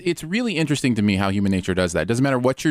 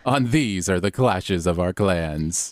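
cliffhanger hushed stop; 4 semitones lower than usual. Acted. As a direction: tease the next episode darkly. Cliffhanger outro.

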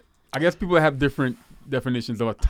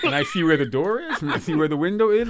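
laughing; 2 semitones higher than usual. Real, not acted. Joking about leaving, laughing.

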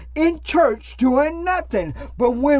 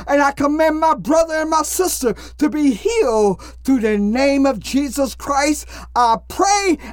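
preaching at full force. Acted. Casts out demons in prayer.

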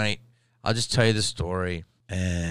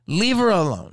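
high, louder protest; imitated heckler yell; 11 semitones higher, 5 dB louder than usual. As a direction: mimic a woman shouting from the audience. Retold heckler calling out.

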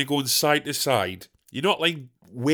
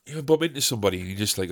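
ordinary delivery

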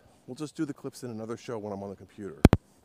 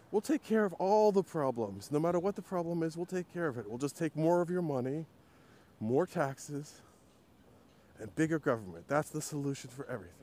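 mock government voice; 5 semitones higher than usual. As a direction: sneer it like a smug politician. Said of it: "and it's like".

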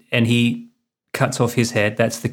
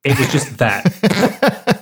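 holding in laughter; much slower than usual. Retold or imitated. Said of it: "teenage boy trying not to laugh".

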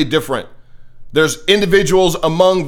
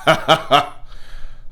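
short breathy chuckle; 3 dB quieter than usual. Real, not acted. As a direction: chuckle at your own jab. Scoffs after mocking liberal punchline.

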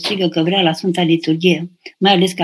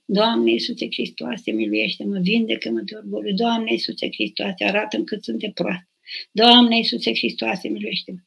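quiet, slow murmured Jesus prayer; soft slow prayer; 6 dB quieter than usual. Shown as a demonstration. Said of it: "cântând la chitară". (rugăciune șoptită, rar și încet)

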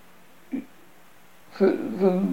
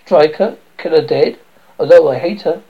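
raised, indignant voice; loud protest; 7 dB louder than usual. Acted. Lysander to Demetrius about Hermia, loud indignant protest. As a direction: push back loudly at the idea.

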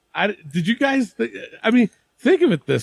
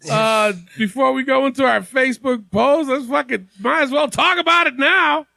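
raised, excited hosting voice; being loud; 4 semitones higher than usual. Real, not acted. Host opening the discussion to his fellas, being loud. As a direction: project it like an over-eager host. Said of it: "I don't know why I'm being loud".

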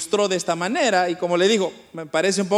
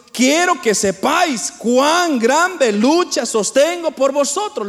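lectura bíblica predicada; 4 semitones higher, 3 dB louder than usual. Acted. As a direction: read it out emphatically to the congregation. Lee una cita bíblica predicando. (lectura bíblica lenta y enfática)

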